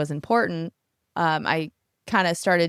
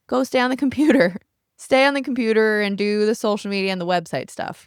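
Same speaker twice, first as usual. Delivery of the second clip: raised, louder mock order to oneself; self-scolding; 4 semitones higher, 4 dB louder, faster than usual. Artist ordering herself back to computer work, mock scolding. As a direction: boss yourself around, voice pitched up.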